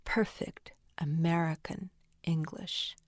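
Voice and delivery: "perfect American English" said word by word, with pauses; deliberate word emphasis. Shown as a demonstration. Writer showing how the sound conveys meaning, deliberate word by word. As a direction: set "perfect", "American" and "English" apart, softly stressed. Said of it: "So when you say".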